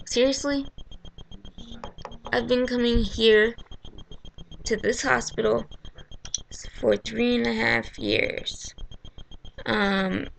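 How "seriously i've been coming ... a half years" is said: mildly indignant retort, pitched up at the start; retold exasperation, slightly raised; incredulous. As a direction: push back in disbelief.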